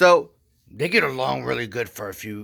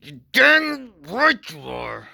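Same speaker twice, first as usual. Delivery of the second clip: slow, higher, loud cocky reply; smug agreement; 10 semitones higher, 8 dB louder, slower than usual. Retold or imitated. Speaker answering Carol, slow and cocky. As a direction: drag it out with swagger. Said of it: "I was like".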